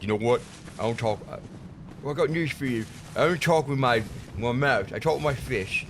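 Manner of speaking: a lightly put-on thug voice; random death voice. A hint of a brawling enemy taunting the hero. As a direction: growl it like a tough brawler. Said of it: "the random death voice I use for him".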